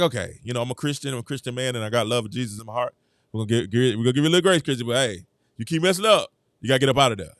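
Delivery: low, soft, mock-pious; mock preacher voice. Vlogger answering the coach as a mock-pious Christian man, low and soft. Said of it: "And I was like".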